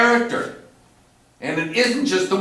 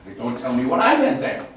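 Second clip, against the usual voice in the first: laughing echo; 4 semitones lower than usual. Retold or imitated. Director echoes actor, laughing.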